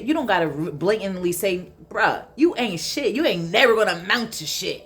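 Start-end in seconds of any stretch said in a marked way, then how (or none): 1.9-4.8 mildly acted harsh telling-off; mock blatant dissing of someone; blatant put-down. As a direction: act out bluntly putting someone down, a little emphatic. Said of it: "don't gotta say it like that".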